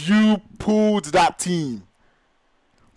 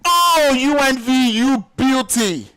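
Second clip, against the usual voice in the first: louder, high excited yell of praise; ecstatic cheer; 6 semitones higher, 3 dB louder than usual. Real, not acted. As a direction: shout the team's name in triumph. Caster celebrating the winning play.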